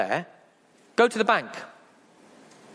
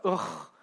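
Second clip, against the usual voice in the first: exasperated groan; 9 semitones lower, 5 dB quieter than usual. Retold or imitated. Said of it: "and you're like".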